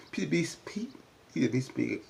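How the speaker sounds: whispering encouragement to Mimi. Shown as a demonstration. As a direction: breathe it out as an airy whisper. Cheering Mimi on, repeated.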